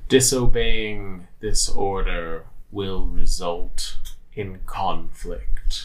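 slow, flat machine voice; robotic monotone. Acted. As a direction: deliver the order like a construct. The same voice speaks again.

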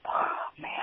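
breathless, shaken whisper; a whispered reaction to a friend's story of abuse; stunned whisper. Real, not acted. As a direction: let the words fall out in shock.

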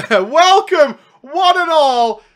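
loud, slow showman welcome; grand announcer welcome. Acted. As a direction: announce it like a host.

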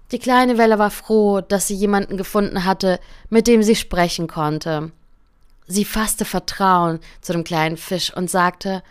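calm, gentle fairy-tale reading; story narration. A narrator's reading. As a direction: read it like a bedtime story to a listener. Narration between character lines. (ruhige Märchenerzählung)

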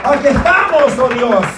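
full-force preaching. Acted. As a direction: drive the sermon home with fire. Preacher calls congregation to praise.

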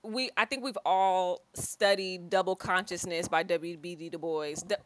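tripping over words with a retainer; talking around a retainer; wearing a retainer. Real, not acted. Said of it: "I got my retainer in, y'all".

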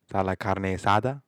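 lightly voiced Spanish accent; half-hearted Spanish accent. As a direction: ask with a rising Spanish lilt. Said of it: "but in a Spanish accent".

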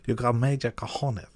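mock Latino villain accent; Sanchez accent. Host fumbles the villain's quote, mock Latino accent. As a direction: attempt a hammy Latino accent, close to laughing. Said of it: "should I do the accent".

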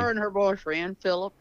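talking while still chewing; mouth full. Real, not acted. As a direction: speak around a bite of food. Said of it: "I've got a big bite of cornbread".

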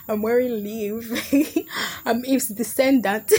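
joking reply broken by laughter; giggling comeback. Acted. Girl answering a boy's text about her outfit, giggling. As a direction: giggle through your own punchline. Jokes back at boy, breaking up laughing.

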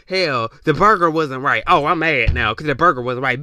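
hammed-up whine over a bad burger; mock burger complaint. Mimicking someone mad about a burger, mock whine. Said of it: "it could be like".

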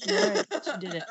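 amused surprise. Real, not acted. Amused disbelief at daughter.

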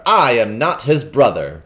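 loud, slow flat denial; firm interruption. Acted. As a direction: cut in firmly. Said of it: "said the king, interrupting".

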